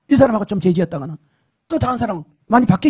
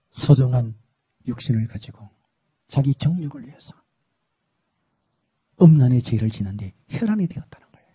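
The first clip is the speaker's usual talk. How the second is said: voice of the Lord; 10 semitones lower than usual. Retold or imitated. The Lord gently explains to his servant. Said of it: "주님이 그러시더라고요".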